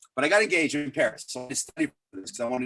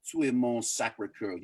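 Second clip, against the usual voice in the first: put-on lightly accented American French; retold proposal in modest American-accented French; 3 dB quieter than usual. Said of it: "a shitty American French accent".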